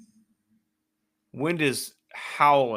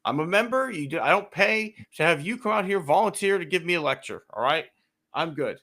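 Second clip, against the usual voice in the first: exasperated retort; 3 semitones higher than usual. Retold or imitated. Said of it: "I was like".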